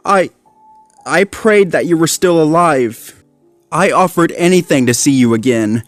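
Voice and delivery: ashamed. A narrator's reading. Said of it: "lowering his head".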